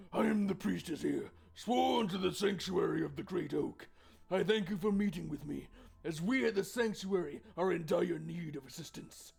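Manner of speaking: lightly voiced, solemn priestess. Priestess begging adventurers for help, lightly voiced formal priestess. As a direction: plead formally as a temple priestess. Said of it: "I need a proper priestess voice".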